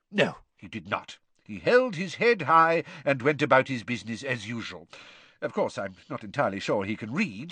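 lightly voiced calm old headmaster; a hint of gentle, wry old wizard; Dumbledore's voice.

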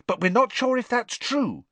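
lightly voiced girl, hurried; a hint of a quick schoolgirl. A narrator's reading. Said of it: "said Hermione quickly".

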